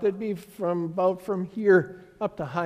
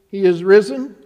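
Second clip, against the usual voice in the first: raised, ringing Easter call; proclaiming call; 10 dB louder than usual. Real, not acted. Pastor calling Easter greeting to congregation, raised proclaiming voice. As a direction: call it out to the whole church.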